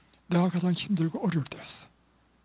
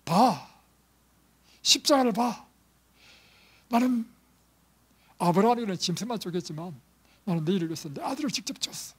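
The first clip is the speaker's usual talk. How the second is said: commanding God voice; 3 semitones higher than usual. Acted. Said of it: "하나님께서는".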